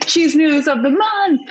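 repeated through loud laughter; laughing. Real, not acted. Host laughing at cohost's cheese news line. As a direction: crack up while saying it.

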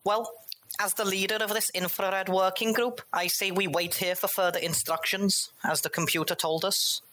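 high, pompous command voice; authoritative leader. Acted. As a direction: lead the group self-importantly. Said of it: "authoritatively and say".

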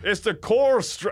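blurted-out bad Scottish accent, pitched high; botched Scottish accent. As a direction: attempt Scottish and land nearer West Country. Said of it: "I'm just gonna do it without thinking".

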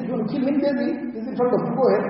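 quiet, unhurried dare to a threatening jinn; calm reply. Retold or imitated. Mother calmly dares the jinn threatening her baby, quiet and composed. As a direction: say it softly and calmly, unafraid. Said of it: "So she said calmly".

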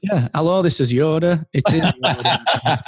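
a playful hint of Yoda; Yoda impression. Host asks for Yoda, he plays it lightly. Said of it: "Sounds great in your accent".

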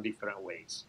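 talking through a throat tickle; choking. Real, not acted. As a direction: voice catching, about to choke. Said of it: "I'm just choking myself".

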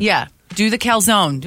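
mouth full. Real, not acted. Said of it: "I'm sorry, my mouth is full".

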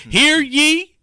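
booming court crier call, high and loud; town crier. Pretend. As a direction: announce the judge like a bailiff. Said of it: "I'm gonna go Flip Wilson on everybody".

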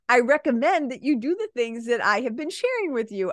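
calm, even, professional tone; polite version. Shown as a demonstration. Coach gives the polite way she really tells clients, calm. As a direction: say it kindly, no edge. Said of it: "of course I don't say it like that".

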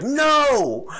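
high, very loud mimicked scream. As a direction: shriek it like the upset customer. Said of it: "starts screaming at the dad".

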